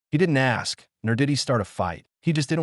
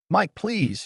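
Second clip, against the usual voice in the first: high, shaky pleading; trembling, fearful plea; 10 semitones higher than usual. A narrator's reading. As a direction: beg him in fear, voice trembling. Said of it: "with a trembling voice full of fear".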